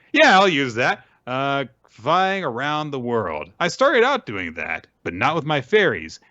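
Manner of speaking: high, put-on stage voice; lifted, theatrical character voice; performer taking a suggestion. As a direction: play the performer up high, accepting a prompt. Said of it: "Min's like".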